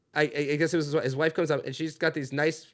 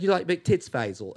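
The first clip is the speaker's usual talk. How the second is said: lightly done Cockney come-on, falling away on the name; Cockney accent; 2 semitones higher than usual. Retold or imitated. British wife coming on to Faisal, imitated Cockney. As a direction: imitate a forward Cockney woman. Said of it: "they're cockney. No, she's like".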